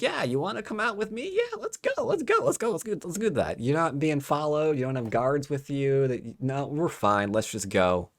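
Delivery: very high, gushing let's-go, settling down; hammed-up eagerness, high then easing to normal; mock eager invitation. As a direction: rush them out the door, squeakily eager at first. Acts out princess being invited along.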